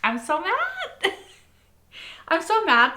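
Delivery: high, laughing frustration; be mad but grinning; happy mad. Real, not acted. Reactor to viewers, laughingly mad at the twist. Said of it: "in a happy way".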